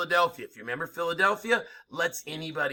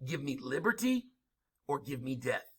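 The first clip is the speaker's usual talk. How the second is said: dramatic oratory; 5 dB quieter than usual. Retold or imitated. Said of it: "He says".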